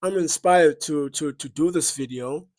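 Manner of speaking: chewing gum while speaking. Real, not acted. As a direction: gum in the mouth, talking on. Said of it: "excuse the gum".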